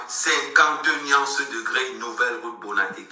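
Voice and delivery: very slow, drawn-out venue name; slow promo slogan, word by word; repeat-after-me announcement. Shown as a demonstration. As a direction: spell it out slowly for the crowd to repeat. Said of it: "Répétez après moi".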